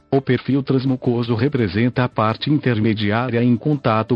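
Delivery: synthetic computer voice reading; robotic text-to-speech narration. Real, not acted. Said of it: "falo através desta voz sintetizada".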